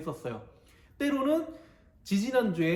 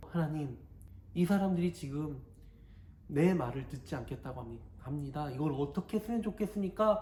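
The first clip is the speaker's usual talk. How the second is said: softer, hesitant pleading; humble prayer; 2 semitones lower, 5 dB quieter than usual. Acted. Moses praying to God about the rebels, soft and humble. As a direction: pray quietly, unsure what to do. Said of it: "모세가 기도하기 시작해요".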